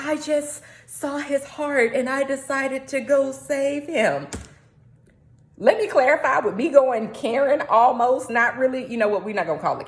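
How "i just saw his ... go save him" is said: lightly voiced, slowed earnest tone; a hint of a starry-eyed rescuer; mock earnest rescuer. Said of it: "And she's like".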